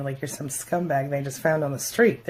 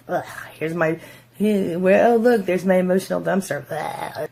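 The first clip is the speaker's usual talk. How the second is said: tired contempt; 3 semitones higher, 3 dB louder than usual. Retold or imitated. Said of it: "they're like".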